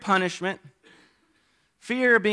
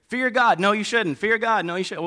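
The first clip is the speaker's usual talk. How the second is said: quick, higher-pitched back-and-forth argument; mock bickering; 3 semitones higher than usual. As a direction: act out two sides squabbling. Acting out back-and-forth verse debate.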